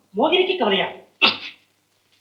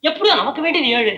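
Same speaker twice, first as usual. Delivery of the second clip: ordinary talk, nothing marked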